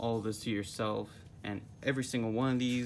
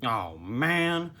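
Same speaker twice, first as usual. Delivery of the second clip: called out; 2 semitones higher, 6 dB louder than usual. Acted. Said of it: "called Squidward".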